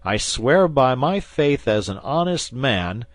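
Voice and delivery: loud, rising menacing oath; fierce threat. Acted. Guardsman threatens the wounded bandit, loud fierce oath. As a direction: swear it like you mean to kill.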